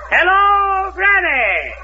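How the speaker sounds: calling out. Acted. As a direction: shout down into the wolf's belly. Host calling into wolf's stomach.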